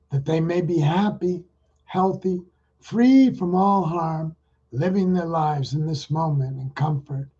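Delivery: guided meditation. Acted. Leads a metta meditation.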